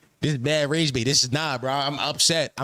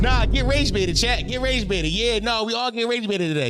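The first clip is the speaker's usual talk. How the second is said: riled up; 9 semitones higher than usual. Real, not acted. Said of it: "this is rage bait".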